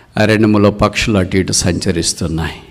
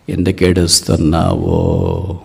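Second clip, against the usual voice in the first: puzzled hunter; slower than usual. Acted. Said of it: "ఇప్పుడు ఈ వేటగాడు పక్షిరాజుతో ఇలాగన్నాడు".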